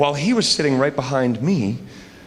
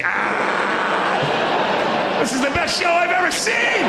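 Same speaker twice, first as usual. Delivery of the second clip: much higher, shouted fan excitement; thrilled fans; 12 semitones higher, much slower than usual. Retold or imitated. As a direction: squeal like starstruck contestants.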